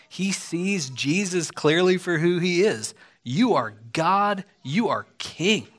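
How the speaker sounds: preaching climb from firm to shouted; rising declaration. Acted. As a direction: build each phrase to a ringing full stop. Preacher proclaims Nathanael's declaration.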